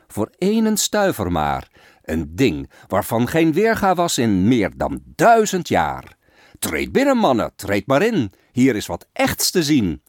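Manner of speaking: fairground crier calling in passers-by; barker calling. Acted. Barker at the open door calling the fair crowd in. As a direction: drum up the crowd at the tent door. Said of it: "Nu roept men aan de ontsloten deur".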